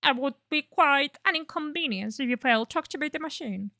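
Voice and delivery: a lightly put-on pumpkin creature voice. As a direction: play a goofy pumpkin creature, not too far from your own voice. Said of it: "I'm gonna make, like, a pumpkin voice".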